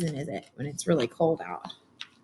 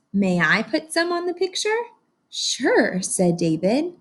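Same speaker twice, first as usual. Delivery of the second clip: lively read-aloud storytelling; story narration; 2 semitones higher, slower than usual. A narrator's reading. Teacher reading to her class, animated storybook narration. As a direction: read it like a picture book to a class.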